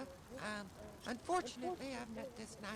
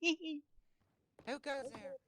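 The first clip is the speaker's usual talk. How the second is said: slow call-out challenge; 4 semitones higher, 6 dB louder, much slower than usual. Acted. Guard challenging someone in dark.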